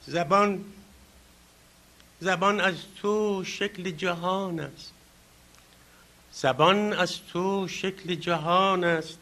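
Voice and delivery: slow, measured verse with drawn-out words and long pauses; poem recitation. Acted. Speaker recites the honoured poet's verse to the audience, poem recitation. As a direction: declaim the opening words, easing at line ends.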